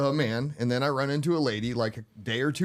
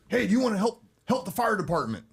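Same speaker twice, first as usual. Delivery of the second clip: imitating gatherer; 8 semitones higher than usual. Retelling signature gatherer's pitch.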